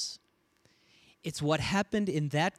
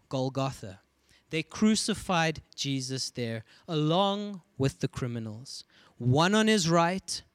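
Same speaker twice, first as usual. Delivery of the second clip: scripture reading. Acted. Reads scripture aloud.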